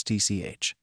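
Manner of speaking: sharp tsk of irritation; annoyed tongue click. A narrator's reading. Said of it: "Himiko clicked her teeth in annoyance".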